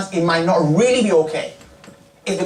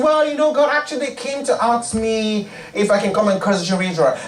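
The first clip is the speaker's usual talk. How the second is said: sheepish explaining; 3 semitones higher than usual. Acted. Balaam explaining to God.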